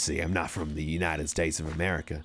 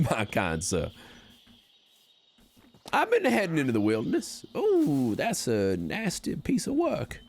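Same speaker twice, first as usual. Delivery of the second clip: put-on Wild West accent; 4 semitones higher than usual. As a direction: play a folksy old Wild West prospector. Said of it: "This is just the accent I'm doing".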